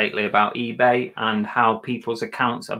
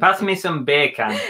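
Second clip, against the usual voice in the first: mock Jamaican accent. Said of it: "bacon in Jamaican".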